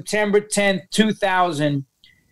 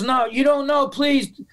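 higher-pitched imitation of a pleading mother; retold begging; 4 semitones higher than usual. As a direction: lightly act out her desperate plea. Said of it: "she's begging me".

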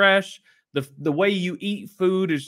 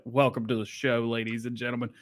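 deadpan intro; 7 semitones lower, 5 dB quieter than usual. Acted. Deadpan intro after ditching script.

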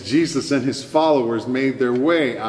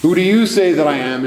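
louder, higher, quicker challenge; emphatic repeated question; 4 semitones higher, 5 dB louder, faster than usual. Retold or imitated. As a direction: press the question home, loud and quick. Question repeated with more force.

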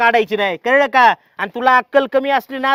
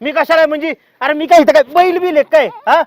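higher, louder angry protest; indignant outburst; 4 semitones higher, 3 dB louder than usual. Acted. Husband protesting to wife he's no ox, indignant shout. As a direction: fling the question back at her.

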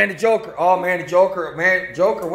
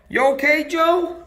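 mock concern; 10 semitones higher than usual. Dad checks on toy referee.

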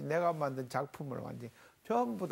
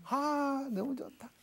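delighted adoration; 8 semitones higher, slower than usual. Acted. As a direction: melt with fondness, acting it out. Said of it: "그런 상태".

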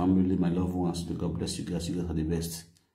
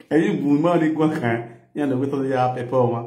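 excited; 6 semitones higher, 6 dB louder than usual. Real, not acted. Excited Yoruba outburst.

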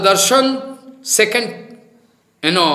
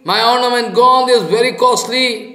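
a mild mock cry of loss, higher; lightly hammed-up royal outcry; king shouting; 5 semitones higher than usual. King cries out over his lost necklace, mildly mock. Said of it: "king shouting".

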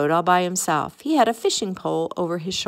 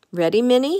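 light, higher-pitched storybook call; 5 semitones higher, 4 dB louder, faster than usual. A narrator's reading. Mickey calls to Minnie to set off, calling out. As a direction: call it cheerily as a question, raised pitch. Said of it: "he called".

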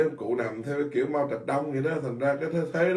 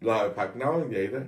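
humble quote; 4 semitones lower than usual. Retold or imitated. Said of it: "lúc nào ông nói".

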